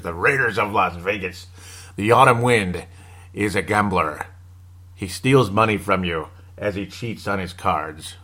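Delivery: slow, lightly solemn poem reading; understated mock-epic narration; mock dramatic recitation. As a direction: recite it like a team legend. Recites mock Autumn Wind poem.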